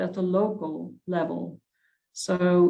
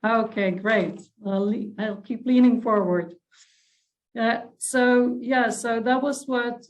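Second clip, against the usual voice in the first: speaking up; 4 semitones higher than usual. Real, not acted. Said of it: "Yeah, that's much better".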